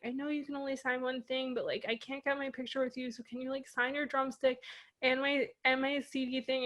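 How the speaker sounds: soft, high, tearful pleading; a mild imitation of a crying teen begging quietly; retold tearful plea. Fan begging the drummer for an autograph, softly tearful. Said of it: "and I'm, like, still crying".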